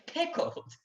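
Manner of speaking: high, breathless horrified squeak; appalled gasp. Acted. Nervous squire aghast at talk of pickling, horrified gasp. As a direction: choke out the word in horror. Frightened duellist hears of death.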